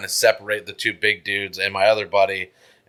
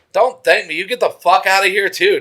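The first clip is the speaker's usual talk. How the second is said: higher-pitched, irritated retelling of a telling-off; retold angry telling-off; 8 semitones higher, 4 dB louder than usual. Sending drunk buddy away after a fight, retold annoyance. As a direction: tell off your buddy, pitch jumping up.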